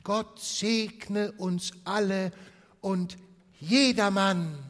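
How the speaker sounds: high, loud, slow blessing; family chorus, high and loud; festive toast. Acted. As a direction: raise the glass and bless everyone.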